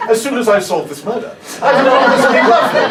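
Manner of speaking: lightly mock a genteel murder-mystery guest; posh Agatha Christie guest. Comic mocking posh Agatha Christie cruise passengers. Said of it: "Do you know what I mean?".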